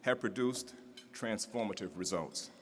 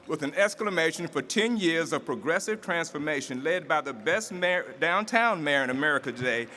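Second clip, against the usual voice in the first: rising to a big, louder, higher announcer call; building introduction; 5 semitones higher, 6 dB louder than usual. Acted. Emcee hyping the crowd for the mayor, rising announcer shout.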